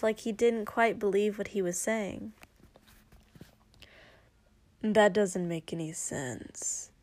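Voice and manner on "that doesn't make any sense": protesting. Acted. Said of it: "Shoto protested".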